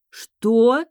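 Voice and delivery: loud, high shocked yell. A narrator's reading. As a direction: shout it in disbelief. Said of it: "мои вопли".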